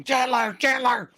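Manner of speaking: high retold yell down the hall; yelling for Chandler. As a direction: call him out loudly, high and urgent. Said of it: "while yelling".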